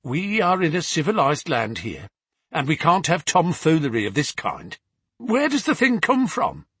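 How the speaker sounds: loud, high indignant bluster, rising to a cry; stubborn father protesting too loudly. A narrator's reading. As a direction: dismiss it with shaky bravado.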